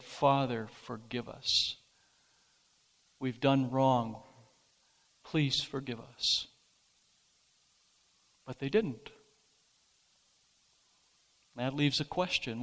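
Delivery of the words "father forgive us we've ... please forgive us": soft, pleading plea for forgiveness; pleading confession. Pretend. Children kneel before their father, softly pleading forgiveness. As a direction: beg quietly, as if kneeling. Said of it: "fallen down on their knees and said".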